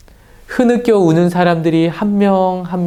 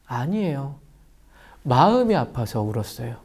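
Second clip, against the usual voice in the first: usual speaking voice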